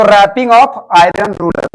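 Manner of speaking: very slow, each word spaced out; slow dictation. Shown as a demonstration. Teacher recapping the phrase for students, slowly. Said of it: "चल ठीक।".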